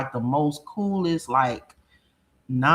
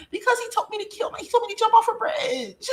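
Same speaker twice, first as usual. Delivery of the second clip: much higher, fast, tearful whine; hammed-up teen sobbing her story; mock crying daughter; faster than usual. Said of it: "And I'm like".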